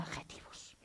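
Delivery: whispered, fed-up mutter; bored mutter. Retold or imitated. Bored student mocking the teacher's words, whispered. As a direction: sigh it under your breath.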